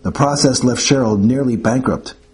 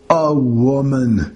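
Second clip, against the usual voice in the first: exclaimed; much slower than usual. Acted. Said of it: "he exclaimed".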